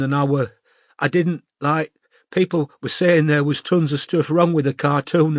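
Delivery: lightly voiced teenage girl, still teary; upset young northern girl. A narrator's reading.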